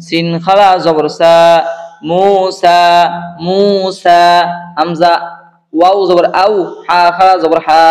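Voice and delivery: measured chant-like drill with long final vowels; spelling drill recitation. Shown as a demonstration. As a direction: recite each spelling evenly, drawing out the last syllable. Leads a letter-by-letter recitation drill.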